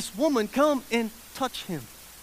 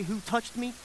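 WHO TOUCHED ME quoted back, rising at the end; sarcastic echo; 6 dB quieter than usual. Retold or imitated. Disciples throwing Jesus' question back, sarcastic. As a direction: imitate doubters echoing the question in disbelief. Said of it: "the sarcasm that his disciples has".

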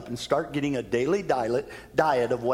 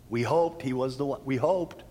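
deflated. Acted. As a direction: let the hope drain out. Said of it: "feel the depression in that statement".

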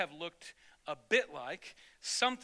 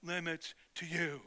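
bully's warning; 2 semitones lower, 4 dB quieter, slower than usual. Retold or imitated. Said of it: "he used those words".

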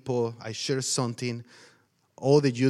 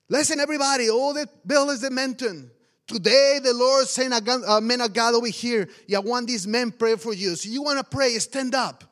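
raised, high-pitched announcing voice; pastor addressing a crowd; 8 semitones higher, 5 dB louder than usual. Retold or imitated. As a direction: call the whole village to their feet. Pastor addresses the gathered village.

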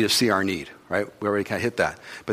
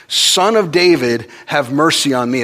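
calling out; 4 semitones higher, 5 dB louder than usual. Retold or imitated. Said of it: "So he says".

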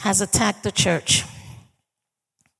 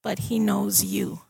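gentle reassurance; 5 dB quieter than usual. Retold or imitated. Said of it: "puts an arm around her and tells her".

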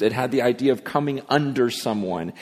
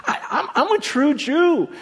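much higher with a laugh, a put-on bragging voice; boastful Paul; 13 semitones higher than usual. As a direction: brag with a laugh about being a true Jew. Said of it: "He goes".

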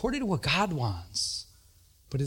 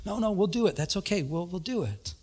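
soothing; 4 semitones higher, 5 dB quieter than usual. Retold or imitated. Calming the yelling secretary.

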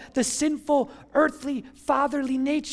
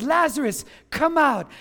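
firm, slightly raised summons; retold command, a touch louder; loud calling out; 4 dB louder than usual. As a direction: call him out, mildly projected. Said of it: "he calls him out in a loud voice".

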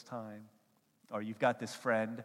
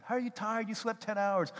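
high, slightly louder incredulous friend; mock disbelief; 11 semitones higher, 7 dB louder than usual. Friend baffled that dumped guy slept ten hours, mock disbelief. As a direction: act baffled at a lazy buddy.

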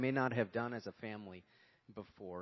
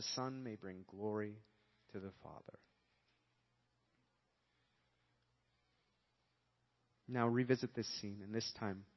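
guided meditation. Acted. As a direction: guide the listeners into the upper room gently. Leads imaginative gospel meditation.

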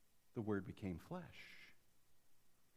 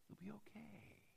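parent's whisper; 7 semitones higher, 18 dB quieter than usual. Retold or imitated. Parents soothing child, whispered.

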